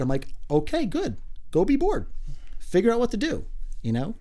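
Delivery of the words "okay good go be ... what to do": higher-pitched, emphatic mock-parent reply; brisk parental send-off. Parent answering kids who say they are bored, brisk send-off. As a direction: send the kids off with high, punchy insistence.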